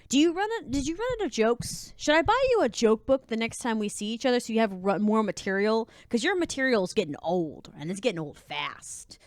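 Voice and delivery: sassy comeback. Acted. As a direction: fire off a sassy retort, then let it fall. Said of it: "say it with a lot of sass".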